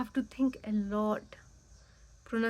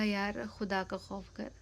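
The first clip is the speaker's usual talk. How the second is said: mock exasperation that builds louder to the end; fed-up venting at the roommate, growing louder; exasperated rant; 4 dB louder than usual. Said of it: "मैंने कहा". (झुंझलाहट भरी शिकायत, आवाज़ धीरे-धीरे ऊँची)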